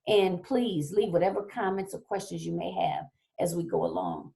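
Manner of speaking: losing her voice, a bit hoarse; strained, hoarse speaking voice. Real, not acted. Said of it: "as I'm losing my voice".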